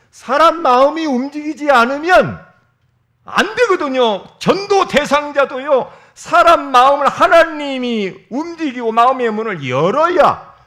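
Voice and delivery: loud, high fervent preaching; a preacher pressing the point to the congregation; full-force preaching. Acted. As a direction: proclaim it with passion.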